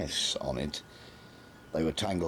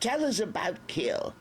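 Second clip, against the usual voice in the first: mild shout. A narrator's reading. The Major loses patience with Nobby, shouting. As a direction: bark the name impatiently. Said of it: "the Major shouted".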